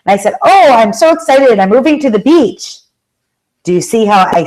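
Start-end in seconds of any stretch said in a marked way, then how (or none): 0.4-2.8 enthusiastic. Retold or imitated. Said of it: "stated my intention with enthusiasm".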